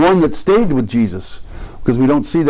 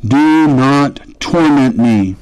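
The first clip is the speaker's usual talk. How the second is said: slow pleading read; much slower than usual. Shown as a demonstration. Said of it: "Look at the last phrase".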